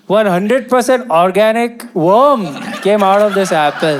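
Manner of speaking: spring the worm on them; excited reveal. Acted. Comic telling the crowd about the worm apple, excited.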